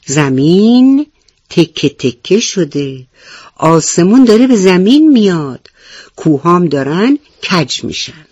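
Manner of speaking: alarmed, stretched-out warning; frightened animals. Acted. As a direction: cry the news in fright. (هشدار با ترس)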